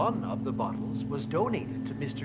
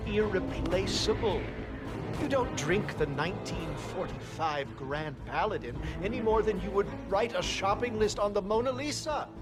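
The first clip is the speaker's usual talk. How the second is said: building indignation, pitch climbing at the end; indignant; 4 semitones higher than usual. Acted. Sommelier appalled that a prized wine will be drunk, indignant. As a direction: protest it with growing outrage.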